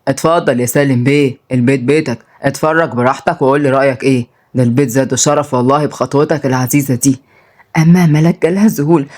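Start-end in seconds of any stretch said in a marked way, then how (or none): 0.1-7.2 lower, lightly voiced obliging host; welcoming uncle. Uncle shows a mafia boss into the house, welcoming. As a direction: welcome an important guest in a low voice. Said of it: "وكان سعيد بيقول بترحيب".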